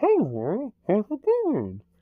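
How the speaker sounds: muffled, mumbled voice, pitched very high. Speaker describing a scene, doing Shefe greeting Warren in a muffled voice. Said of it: "like muffled voice, you can barely understand them".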